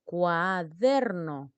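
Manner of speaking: slow "Cuaderno", swelling on DER; drawn-out stressed syllable. Shown as a demonstration. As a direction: stretch "Cuaderno" out as cua-DEEER-no. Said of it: "Tengo que sentir la palabra, dónde se destaca".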